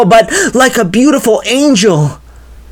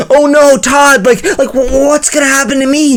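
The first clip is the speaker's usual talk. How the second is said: terrified; 5 semitones higher than usual. Acted. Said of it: "Raylan is terrified".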